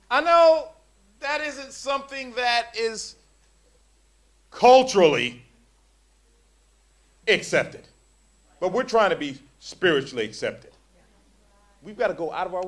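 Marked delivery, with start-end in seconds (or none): 0.1-10.7 preaching shout. Real, not acted. Preaching at full force.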